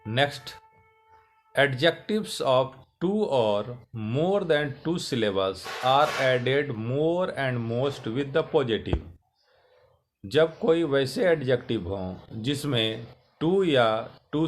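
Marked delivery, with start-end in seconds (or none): 0.1-9.0 slow, careful reading of the rule; rule read aloud. Shown as a demonstration. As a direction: read the rule out slowly for students. Reads English rule slowly. (धीमे, साफ़ नियम पढ़ना)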